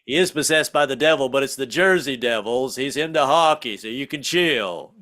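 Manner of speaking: lightly voiced, unruffled dad; calming father. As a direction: settle your wife down casually. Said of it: "calm her down".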